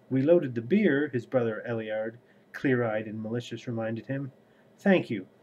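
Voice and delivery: steady, even read-aloud voice; audiobook-style reading with lightly voiced characters; story narration. A narrator's reading. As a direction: read the book passage to your viewers. Reads novel excerpt aloud.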